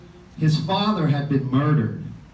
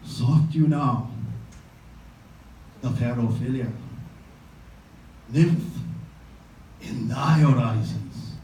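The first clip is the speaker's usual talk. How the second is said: Hamlet soliloquy recital. Acted. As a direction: declaim it like a stage Hamlet, brooding then raging. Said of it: "so here he goes".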